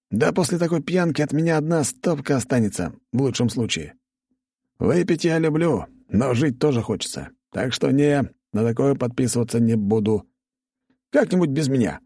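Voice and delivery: a man begging off a deadly drinking bout; wary drinker Nikolai. Acted. Nikolai voiced by narrator.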